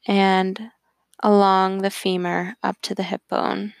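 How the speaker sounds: calm, even voice, unhurried phrase by phrase; guided meditation. Acted.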